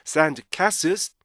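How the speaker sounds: SAND CASTLES, catching a K-like stop before the final s. Shown as a demonstration. Teacher showing students the ending, stop before the last sound. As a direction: end CASTLES on a short stop plus z. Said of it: "스탑 사운드 K를 붙여주셔야 돼요".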